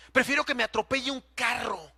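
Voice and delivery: crying out in desperate prayer; anguished cry. Retold or imitated. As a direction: break into a tearful shout. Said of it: "Y oraba y lloraba".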